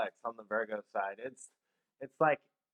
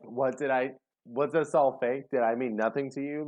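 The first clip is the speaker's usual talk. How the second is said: hurt pleading; 4 semitones higher, 6 dB louder than usual. Retold or imitated. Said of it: "there's just this real, like".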